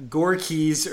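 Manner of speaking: "Gorkis" said GORE-keys; stress on GORE. Shown as a demonstration. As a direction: stress the first syllable of "Gorkis". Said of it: "the stress is on the gore".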